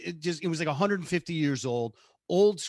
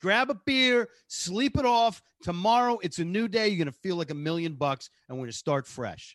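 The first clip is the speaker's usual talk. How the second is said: lightly voiced upbeat mentor; 5 semitones higher than usual. Voicing the kind teacher.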